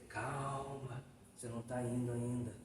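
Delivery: soft, low soothing voice; gently calm him, quiet and low; calm reassurance. Retold or imitated. Spirit reassuring the frightened man, soft and calm. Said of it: "a espiritualidade falou pra ele".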